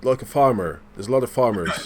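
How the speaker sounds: a hint of West Country farmer; West Country accent. Denying he talks like farmers, slightly West Country. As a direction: slip lightly into West Country. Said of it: "that was a bit West Country".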